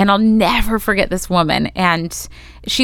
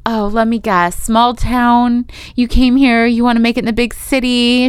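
higher-pitched, patronizing guesswork; condescending; 4 semitones higher than usual. Retold or imitated. Casting director sizing up a newcomer, condescending. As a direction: talk down to a small-town hopeful. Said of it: "The way she said it was so bad".

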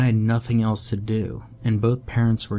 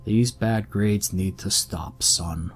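stern father; slower than usual. Retold or imitated. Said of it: "Just the same tone".

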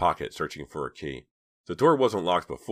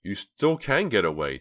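hasty plea; 5 semitones higher, 4 dB louder than usual. A narrator's reading. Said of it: "Dina said quickly".

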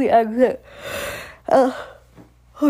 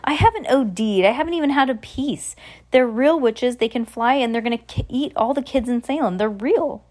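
put-on pleading child; 5 semitones higher than usual. Danny pleads, scared.

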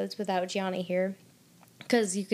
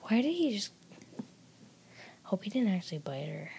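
hushed whisper aside; 5 dB quieter, faster than usual. Real, not acted. Friend whispering an aside while watching the show. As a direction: breathe it under your voice.

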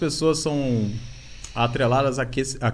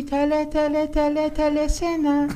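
put-on very high, slow cutesy anime girl; breathy cutesy anime voice; 14 semitones higher than usual. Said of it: "uma voz de anime, uma voz de hentai mesmo".

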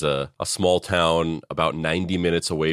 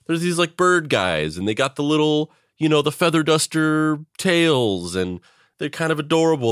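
naive cooing; 6 semitones higher than usual. Retold or imitated. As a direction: coo over cute birds. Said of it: "you're like".

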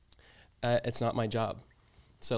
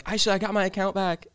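higher-pitched retold good news; retold excitement; 8 semitones higher than usual. Retelling news given to a friend, mildly excited. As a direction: lightly re-enact excitedly sharing news.

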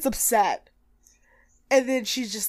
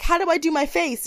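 clueless ask; 7 semitones higher than usual. Retold or imitated. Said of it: "she's like".

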